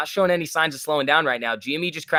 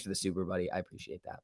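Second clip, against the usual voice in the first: whispered thanks; 5 semitones lower, 12 dB quieter than usual. Real, not acted. Quiet thanks to donor.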